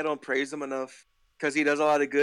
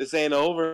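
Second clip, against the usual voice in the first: ordinary talk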